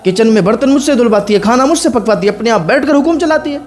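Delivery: a scheming wife whining to her husband about his mother; whiny fake-crying wife. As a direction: wheedle the husband with fake tears. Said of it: "नकली आंसू उसकी आंखों में आ गए".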